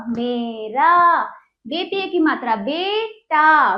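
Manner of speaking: teacher's sing-out spelling drill with stretched syllables; spelling out, then joining. Shown as a demonstration. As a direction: break each word into letters, then blend it. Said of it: "पढ़ेंगे तोड़कर, फिर इसको जोड़कर पढ़ेंगे".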